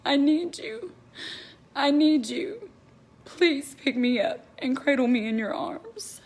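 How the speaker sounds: pleading prayer. Real, not acted. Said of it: "it turns to sobs".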